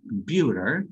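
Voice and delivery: "computer" with a reduced schwa first vowel; English computer. Shown as a demonstration. Teacher demonstrating schwa in "computer". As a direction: say "computer" with a weak o. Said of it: "es un schwa".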